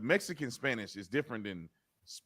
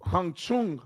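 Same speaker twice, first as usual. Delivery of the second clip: slow mock taunt; 5 semitones higher, 9 dB louder, slower than usual. Teasing joke, drawn out.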